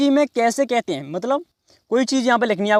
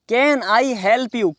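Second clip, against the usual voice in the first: slow, word-by-word "Can I help you"; slow model phrase; much slower than usual. Shown as a demonstration. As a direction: model it slowly for learners. Teacher repeats the phrase slowly. (धीरे-धीरे, शब्द अलग करके)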